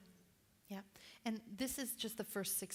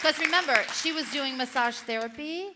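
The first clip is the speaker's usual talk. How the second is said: excited; 9 semitones higher, 13 dB louder than usual. Real, not acted. Hyping her to audience.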